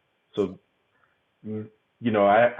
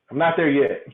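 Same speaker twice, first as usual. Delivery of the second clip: laughing; 3 semitones higher, 7 dB louder than usual. Real, not acted. Repeats it with a laugh.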